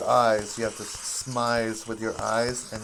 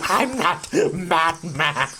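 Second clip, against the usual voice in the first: gravelly Batman voice; 5 semitones higher, 6 dB louder than usual. Pretend. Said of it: "And I'm like".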